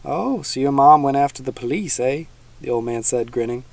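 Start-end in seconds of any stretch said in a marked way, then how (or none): 0.0-2.2 a hint of a folksy old swamp dweller; teasing old man, lightly voiced.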